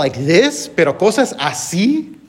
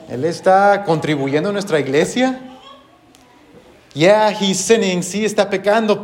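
lightly voiced smug church member; imitated church members; 3 semitones higher than usual. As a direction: voice the complacent congregation, lightly. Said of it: "Perhaps you could hear them saying".

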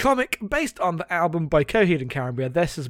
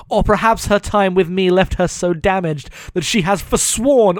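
dramatic monologue reading; 4 dB louder than usual. Acted. Reading Claudio's stupid monologue to co-host, mock-solemn, building loud. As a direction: read it as a self-serious comic-book monologue.

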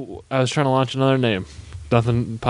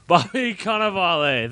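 slow, higher, stretched-out reveal; long drawn-out name; 4 semitones higher than usual. Pretend. Co-host finally recalls an actor's name, drawn out slowly. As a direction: take far too long getting through the name. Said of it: "took you way too long to get there".

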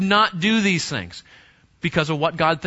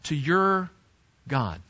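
emphatic fatherly warning. Acted. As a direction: warn a son solemnly, setting the last words apart. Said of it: "He's raising his voice a bit. He's being emphatic".

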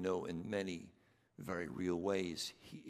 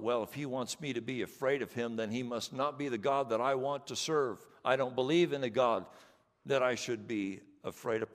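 louder, mock-indignant skeptic voice; mocking objector; 4 semitones higher, 9 dB louder than usual. Preacher mocks a skeptic's objection, indignant and louder. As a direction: parody the foolish objection with scorn. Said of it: "with some nonsense about".

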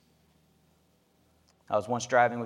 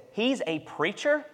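put-on child's voice; 9 semitones higher than usual. Dad voicing his son, surprised.

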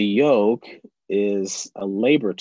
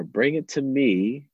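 patient parent; 5 semitones higher, slower than usual. Retold or imitated. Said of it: "I just keep saying to her".

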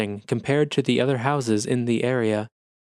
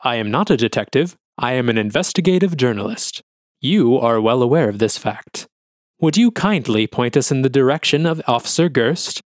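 icy correction; 5 dB louder than usual. Acted. Journalist coolly corrects officer.

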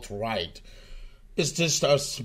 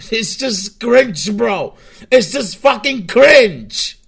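growing disgust; 6 semitones higher, 8 dB louder, slower than usual. Real, not acted. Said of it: "builds disgust over three takes".

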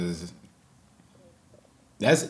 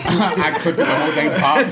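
helium voice; 5 semitones higher, 7 dB louder than usual. Real, not acted. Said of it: "let's tell it on helium".

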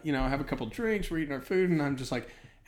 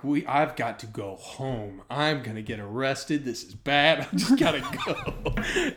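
laughing panic; 3 dB louder, slower than usual. Retold or imitated. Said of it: "And I'm like".

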